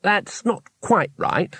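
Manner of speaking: slow, careful correction. A narrator's reading. Two Flower to Cohen, slow careful correction. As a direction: correct him gently and slowly. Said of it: "said Two Flower carefully".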